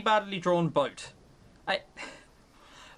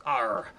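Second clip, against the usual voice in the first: pirate arr; 7 semitones lower than usual. Shown as a demonstration. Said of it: "like that".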